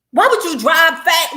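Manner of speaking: exasperated shout. Real, not acted. Ranting at Tamar's punch.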